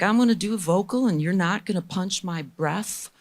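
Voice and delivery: imitated English Jamaican, slowing into a firm instruction; English Jamaican accent. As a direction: lay down the rule in a light English Jamaican accent. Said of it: "this English Jamaican dude".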